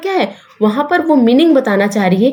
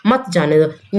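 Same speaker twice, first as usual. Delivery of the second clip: low "मत जाने दो" as one phrase; मत joined to "जाने दो"; 6 semitones lower, slower than usual. Shown as a demonstration. Teacher finishes second sentence, grouping मत with "जाने दो" in a low voice. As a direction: drop the pitch and run मत into "जाने दो". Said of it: "देखो, दोनों का मतलब बदल गया".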